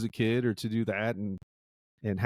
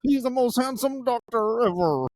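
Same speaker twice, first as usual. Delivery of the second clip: high, louder swooning fangirl voice; swooning girl; 10 semitones higher, 3 dB louder than usual. Pretend. A girl gushing over the handsome doctor, high swooning voice. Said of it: "some girl's gonna be like".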